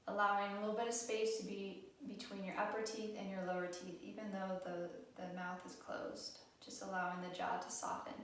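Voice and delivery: calm, even guided-meditation delivery with long pauses; guided relaxation. Acted. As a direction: gently guide them through breath awareness, unhurried. Leads a guided breathing relaxation.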